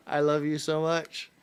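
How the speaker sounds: loud, high declaration of love; excited gushing. Real, not acted. Husband declaring love for his wife, loud gushing. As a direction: proclaim your devotion at full volume.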